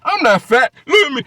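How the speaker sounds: high whiny protest; mocking impression. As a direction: squeal it like a defensive fat guy. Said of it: "Why these niggas saying".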